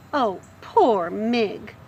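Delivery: tender pity. Acted. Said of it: "You're able to think".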